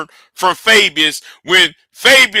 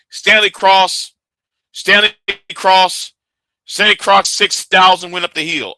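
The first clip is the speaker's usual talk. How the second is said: lightly mimicked repetitive restarts; mocking his stammering starts; 2 semitones higher than usual. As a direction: mimic a speaker who keeps restarting his sentence. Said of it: "that's how he talks".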